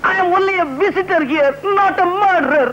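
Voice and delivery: high-pitched, emphatic pleading; hammed-up appeal to authority; theatrical protest of innocence. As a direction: plead innocence high, spacing out the words grandly.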